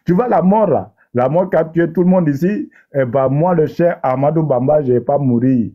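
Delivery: light mock African French accent; joking in a lightly put-on African accent. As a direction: play it for laughs in a hint of an African accent. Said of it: "je vais parler avec l'accent africain, comme ça, c'est plus drôle".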